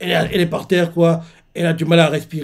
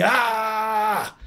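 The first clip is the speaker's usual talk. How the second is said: mock pain cry; 4 semitones higher, 6 dB quieter than usual. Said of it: "Seiko continue de crier".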